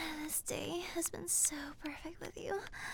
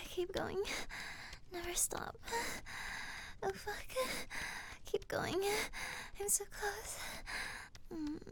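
aroused; 3 semitones higher than usual. Pretend. Lovemaking, rising arousal.

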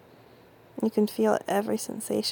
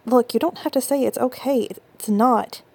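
insistent; 2 semitones higher, 5 dB louder than usual. Acted. Insisting it was not okay.

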